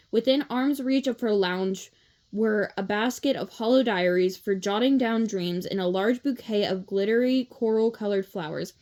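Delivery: plain reading voice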